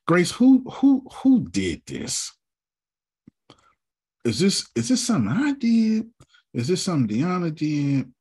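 high, loud mock accusation; playful outrage. Real, not acted. Teasing the team about who made this file, loud and high.

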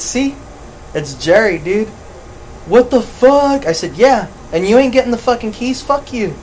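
high, heated mock gloat; retold triumphant scolding; gloating retort.

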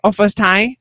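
put-on high, light Asian-accented voice; imitating nail lady. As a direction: mimic the pedicurist's broken English. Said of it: "She's like".

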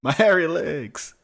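slow, loud creepy drawl; creepy drawn voice. Retold or imitated. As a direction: drag it out like a creep. Mocking a creepy figure.

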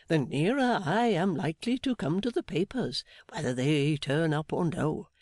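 put-on earnest older gentleman. Meagles arguing with Mother.

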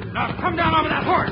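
commanding shout at the outlaw; stern command. Acted. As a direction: bark it at the cornered outlaw. Commanding outlaw at end of chase.

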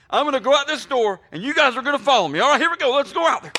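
hammed-up rallying cry; imitating the coach. Coach leading his team out the door, high hammed-up rally. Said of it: "I like how he segues to".

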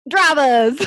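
badly faked Australian race call; Australian Southern accent. Challenged by the host to start engines, shaky-attempt Australian accent. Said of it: "an Australian Southern accent".

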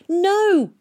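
loud, high shout. A narrator's reading. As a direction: yell it again, defiant. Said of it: "shouted Tom again".

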